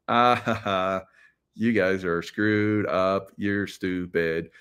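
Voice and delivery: slow, sneering mock laugh then taunt; a slow, jeering "ha ha". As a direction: drag it out to jeer at them. Mocking the opponents with a taunt.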